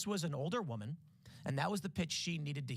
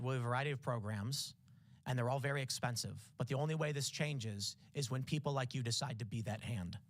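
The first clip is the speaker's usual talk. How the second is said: fake heartfelt pitch; 2 semitones lower than usual. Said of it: "do I get an Emmy?".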